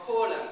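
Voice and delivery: kolam said slowly as KOH-lum. Shown as a demonstration. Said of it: "Can you say kolam".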